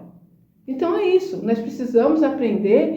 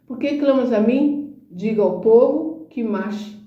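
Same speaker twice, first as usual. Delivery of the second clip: slow, solemn divine voice; voice of God; slower than usual. Retold or imitated. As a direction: speak each word slowly, like God's command. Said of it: "o Espírito Santo de Deus falou claramente". (voz de Deus, lenta e solene)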